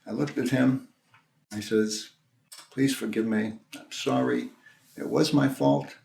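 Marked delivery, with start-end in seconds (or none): 2.7-6.0 measured, soft apology with pauses; calm apology. Retold or imitated. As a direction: answer a yeller gently and contritely. Calm apology answering a screaming driver.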